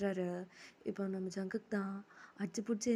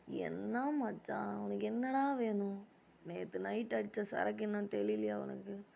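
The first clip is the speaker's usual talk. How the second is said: slow, drawn-out tired voice; slow words of someone woken up; mock tiredness; slower than usual. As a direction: put on a lightly sleepy, dragging delivery. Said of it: "நானே செம்ம டயர்டில் இருக்கேன்".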